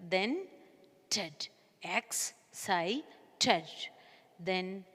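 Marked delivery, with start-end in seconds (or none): 1.1-3.7 low, soft "ted, X, sigh, ted" with gaps; each piece of "X, sigh, ted" as its own beat; syllable by syllable. Shown as a demonstration. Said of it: "put a slang in between the words".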